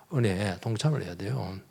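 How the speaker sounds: quiet echo with weight on 동참을; soft repeat. Shown as a demonstration. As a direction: let it sink in quietly.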